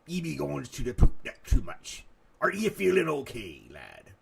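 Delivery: pirate voice. Acted. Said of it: "how pirates talk".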